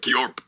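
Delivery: short silly sound effect for falling ground; goofy yorp noise. Pretend. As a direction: voice the ground dropping away with a quick yorp. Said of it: "the ground just straight up goes".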